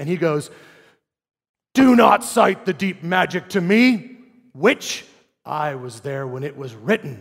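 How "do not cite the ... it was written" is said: slow, deliberate delivery with each word drawn out. Quoting a film scene, acting out Aslan's line to the witch: imitating Aslan's voice. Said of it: "Liam Neeson does a better voice".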